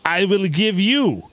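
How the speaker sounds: bad mock Russian accent reading a scam message; terrible Russian accent. Host reading a spammer's pitch in mock Russian accent. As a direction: ham up a Russian scammer's broken English. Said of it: "read that in a terrible Russian accent".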